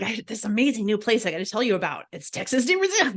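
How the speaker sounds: oversell it like a breathless discovery; mock hype. Teasing people who hype a chain restaurant, mock gushing rave. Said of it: "it's so funny 'cause it's like".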